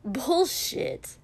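short snappy retort, pitch up; curt annoyed bullshit; snapped. Acted. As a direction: snap it back at her. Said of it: "Kotsky snapped".

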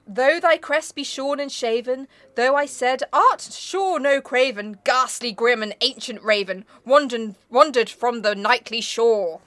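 slow, weighty verse reading; deliberate poetic declamation; poem recitation. Acted. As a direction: draw out each phrase with solemn care.

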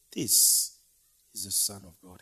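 hushed unvoiced whisper after the cry; awed whisper. Roman soldier confessing at the cross in an awed whisper. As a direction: drop to a reverent whisper.

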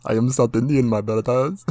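mock South Indian accent, badly faked; fake Indian accent. Joking about what a friend should have said, fake Indian accent. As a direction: put on a hammed-up Indian accent. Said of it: "fake ass, like, Indian accent".

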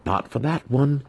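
high, loud, bitter tirade; furious rant. A narrator's reading. Apprentice rants over his dead master, furious. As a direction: pour out years of resentment.

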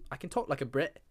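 mock British voice; playful attempt at sounding British; British accent. Shown as a demonstration. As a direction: show off a put-on British accent. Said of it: "but I know British".

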